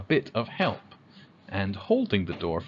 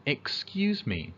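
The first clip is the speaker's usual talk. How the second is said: polite request; 3 semitones higher, slower than usual. Shown as a demonstration.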